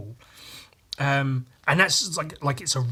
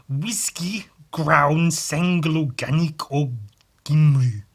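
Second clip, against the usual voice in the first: mock Welsh accent; 4 dB louder, slower than usual. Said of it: "That's how Welsh people sound".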